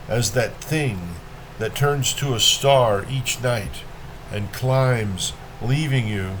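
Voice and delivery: measured poem reading with pauses between lines; poetry reading. A narrator's reading. Reader shares Rilke's Sunset with listeners, measured poetry reading. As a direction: let each phrase stand, then fall away.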